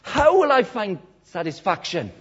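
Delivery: a dramatic, searching plea; chest-beating anguish. Retold or imitated. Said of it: "he beat his chest".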